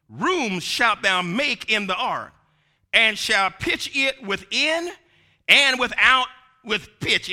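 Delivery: slow, measured Bible reading; scripture reading. Real, not acted. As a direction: read the verse out solemnly, phrase by phrase. Reads scripture aloud.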